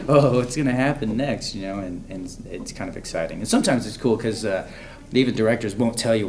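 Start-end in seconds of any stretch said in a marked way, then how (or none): 0.1-1.5 excited. Retold or imitated. Eager fan reaction retold.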